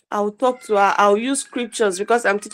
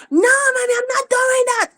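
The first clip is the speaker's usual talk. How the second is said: high-pitched imitation of a screaming daughter; child's scream; 3 dB louder than usual. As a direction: mimic a child shrieking her refusal. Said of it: "she screams at you when you talk to her".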